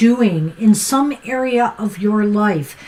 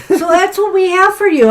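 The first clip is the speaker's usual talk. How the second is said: laughing; 6 semitones higher, 4 dB louder than usual. Real, not acted. Laughs off coffee teasing.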